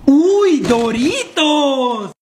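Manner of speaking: slow, drawn-out gasp of greed; hammed-up craving; greedy delight. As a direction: savour the find. Finds hidden doritos.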